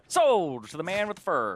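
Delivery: laughing sold call; auctioneer. Pretend. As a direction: bang the gavel, laughing.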